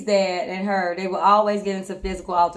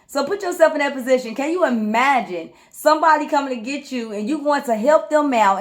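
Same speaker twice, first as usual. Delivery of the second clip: usual speaking voice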